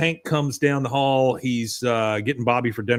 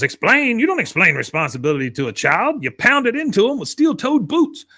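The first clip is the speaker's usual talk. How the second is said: gruff tirade; 8 semitones higher than usual. Retold or imitated. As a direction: pound the point home harshly. Cotton berates Hank.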